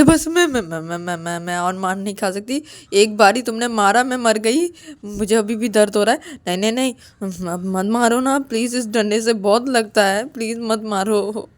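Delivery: mildly acted stammering plea; panicked pleading. Ananya begs Payal not to use the stick, panicked pleading.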